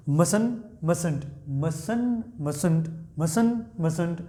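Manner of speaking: "mustn't" with the middle t dropped, like "mussn't"; silent t mustn't. Shown as a demonstration. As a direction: let the t in "mustn't" vanish, "mus-n't". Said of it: "टी बीच में क्या कर देंगे आप? Silent कर देंगे".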